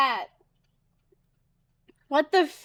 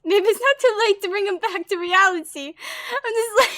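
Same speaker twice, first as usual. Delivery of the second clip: a lightly voiced excited girl, a bit higher; eager young girl; 4 semitones higher, 3 dB louder, faster than usual. Assistant girl worrying Naruhodo is escaping reality, lightly voiced and eager.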